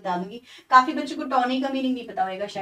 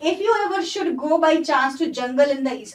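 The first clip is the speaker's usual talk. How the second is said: slow, deliberate recitation of the line; poem reading; 3 dB louder, much slower than usual. Shown as a demonstration. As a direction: read the verse slowly, word by word. Reads the poem line again. (धीमे-धीमे कविता पढ़ना)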